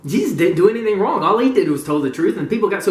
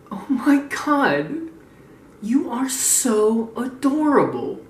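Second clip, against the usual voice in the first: slow, higher, gushing over something cute; mock cooing; 5 semitones higher, much slower than usual. Teasing the upset fan as adorable, mock cooing. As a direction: coo at them in drawn-out mock adoration.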